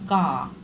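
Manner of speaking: "का" held on its final long "आ" vowel; drawn-out syllable demo. Shown as a demonstration. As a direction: stretch "का" so the vowel at its end is heard. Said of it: "जब हम इसको उच्चारण करेंगे".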